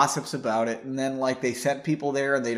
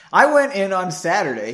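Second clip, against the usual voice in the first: retake of the line, a bit louder; 4 semitones higher, 6 dB louder than usual. Shown as a demonstration. Stress on went. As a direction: reader rereads the line, punching went. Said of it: "Oh, I guess".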